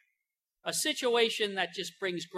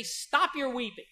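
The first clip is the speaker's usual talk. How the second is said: gentle command; 2 semitones higher than usual. Pretend. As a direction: ease the grieving mother to stop crying. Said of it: "to go to a grieving, grieving mother and say".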